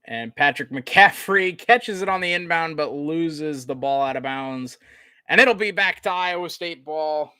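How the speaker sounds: sportscaster call, lifting then settling; measured basketball commentary; live play-by-play. Real, not acted. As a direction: narrate the turnover as it happens. Calls a turnover live.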